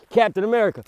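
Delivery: laughing mock title. Mock heroic title after failure.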